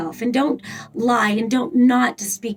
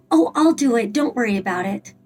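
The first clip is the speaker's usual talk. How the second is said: disempowered martyr voice. Shown as a demonstration. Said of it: "kind of a voice that this would sound like".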